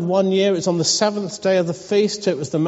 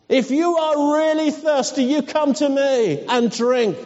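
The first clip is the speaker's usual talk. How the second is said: proclaiming; 4 semitones higher than usual. Acted. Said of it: "he shouted".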